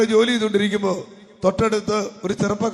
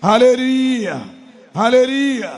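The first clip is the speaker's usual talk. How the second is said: preacher's praise call; 4 dB louder, slower than usual. Real, not acted.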